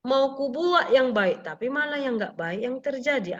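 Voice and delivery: quoting Paul slowly. Retold or imitated. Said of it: "kata si Paulus?".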